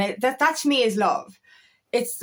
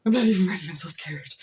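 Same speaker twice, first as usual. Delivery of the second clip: mock scared; 3 semitones lower, faster than usual. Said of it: "And then you go".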